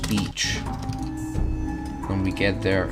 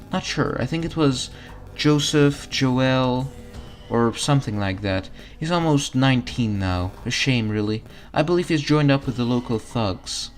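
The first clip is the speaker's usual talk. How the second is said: higher, cheerful mom voice; motherly diner cook; 3 semitones higher than usual. Acted. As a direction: dote on the hungry customer. Mom NPC speaks.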